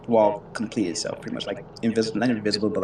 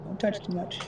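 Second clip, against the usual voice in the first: high-pitched mom voice, trailing softer; higher motherly voice, easing off at the end; mom cautioning kids; 9 semitones higher, 3 dB quieter than usual. Acted. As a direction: play a mom calling out a warning, voice pitched up. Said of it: "mom would be like".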